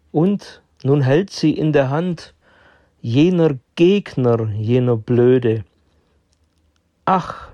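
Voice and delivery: measured poem reading with deliberate pauses; poem recitation. Acted. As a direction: recite it line by line, pausing after each. Recites his own chess poem. (Gedicht vortragen, mit deutlichen Pausen)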